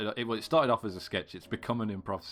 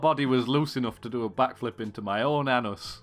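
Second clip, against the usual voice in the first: mock old Yorkshireman; 4 semitones higher, 7 dB louder than usual. Four Yorkshiremen one-upping bit.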